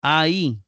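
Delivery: "a, i" glided together as one syllable, ai; diphthong demonstration. Shown as a demonstration. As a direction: say "a, i" firmly as a single joined sound. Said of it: "para que sea diptongo".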